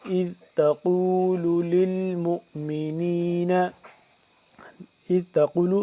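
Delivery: اذ with a soft dhal and تقول with a thick qaf; soft dhal, heavy qaf. Shown as a demonstration. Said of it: "ذال نرمی سے قاف کو موٹا کر کے".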